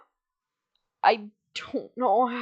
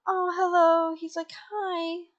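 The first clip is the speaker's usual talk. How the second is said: higher-pitched friendly dog greeting; Perrito; 8 semitones higher than usual. Retold or imitated. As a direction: say hello in a high little character voice. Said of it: "And Perrito is like".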